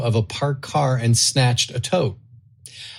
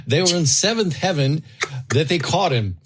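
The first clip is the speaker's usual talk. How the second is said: put-on South African accent; 3 semitones higher than usual. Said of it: "I'm gonna do my best South African accent".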